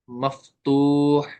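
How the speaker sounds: slowly stretched term, long final syllable; मफ्तूह said very slowly, syllable by syllable; drawn-out term. Shown as a demonstration. Teacher giving the term for a fatha letter, drawn out. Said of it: "उसको हम क्या कहेंगे".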